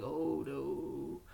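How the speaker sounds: a hint of the husband going oh no; mild imitation of a reluctant husband; husband's groan. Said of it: "And he's like".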